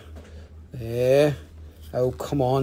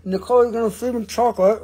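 lightly put-on turtle character, lively and higher; Ninja Turtle toy voice; 5 semitones higher than usual. Seller playing with turtle eyeglasses, playful character voice. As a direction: play the turtle, pitched up. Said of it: "You got to do it this way".

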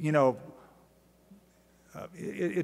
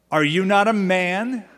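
taunting; 3 semitones higher, 5 dB louder than usual. Acted. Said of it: "he's kind of rubbing it in".

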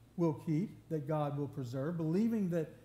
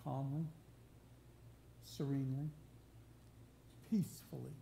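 lower, hushed single words with long pauses; calm, serene; 3 semitones lower, 7 dB quieter than usual. Real, not acted. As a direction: let each word settle peacefully on its own. Picturing a bird resting amid storm.

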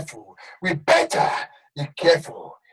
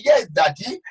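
mock fawning reply. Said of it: "You are saying".

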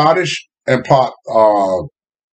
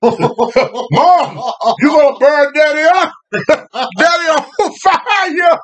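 put-on panicked kids shouting; 10 semitones higher, much slower than usual. Kids cry out, father burning.

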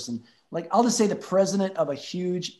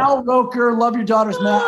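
excited repeat; 5 semitones higher, 8 dB louder than usual. Real, not acted.

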